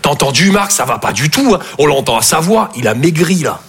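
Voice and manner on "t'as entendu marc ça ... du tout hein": put-on lower, fretting old man's voice; worried old parents. Parents discussing their son by the phone, low fretting. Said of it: "Ils sont là".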